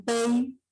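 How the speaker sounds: "peine" with the e of pei leaned on; stress on the E. Shown as a demonstration. Teacher showing the decreasing diphthong, stress on the E. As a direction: lean on the E of "peine", gliding lightly into i. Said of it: "con mayor fuerza de voz en la E".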